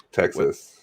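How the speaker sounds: deep low Texan drawl on Texas; Texan accent. Retold or imitated. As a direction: say Texas like an old-school Texan. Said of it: "like, a traditional".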